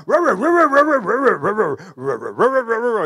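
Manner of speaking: high, loud barking rah-rah in mock German; dog barking his testimony. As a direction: bark the words out like a big excited dog. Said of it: "he speaks in German".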